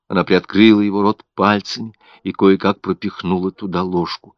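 usual speaking voice

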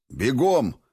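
loud, high shouted order; commanding. A narrator's reading. Pestretsov orders his squad to run, shouting. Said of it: "приказал Пестрецов".

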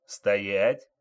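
loud police order to halt; shouted command. Acted. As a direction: call it out as a sudden order. Police officer orders suspect to halt.

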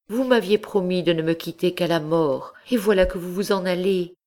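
plus aiguë, de plus en plus rapide, affolée; supplication désespérée. A narrator's reading. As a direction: implorer en se tordant les bras. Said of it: "s'écria-t-elle en se tordant les bras". (la marquise supplie le docteur de rester, aiguë et pressée)

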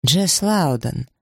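slow halting name; hesitant slow naming of the girl; stammered. A narrator's reading. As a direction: get the name out slowly. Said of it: "запинаясь, пробормотал он".

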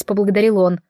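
ordinary delivery

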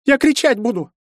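high squeak, near tears; squeaky frightened cry. Acted. Cornered girl threatens to scream, squeaking in fear. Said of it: "пискнула девчонка и заревела".

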